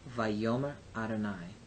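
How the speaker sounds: Vayomer Adonai, yo stressed in vayomer; clear demo pronunciation. Shown as a demonstration. Teacher modelling the full Hebrew phrase for students. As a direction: carefully sound out Vayomer Adonai. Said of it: "Try that with me".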